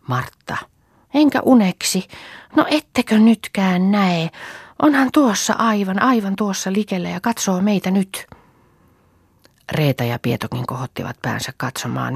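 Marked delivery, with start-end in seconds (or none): 1.1-8.3 put-on a small girl desperate to be believed; little girl insists to her sisters, high and urgent; insistent child. Little girl insists mother is there.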